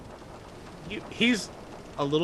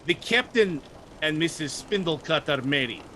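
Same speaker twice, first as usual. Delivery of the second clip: frustrated; 3 semitones higher than usual. Acted. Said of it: "he gets really frustrated".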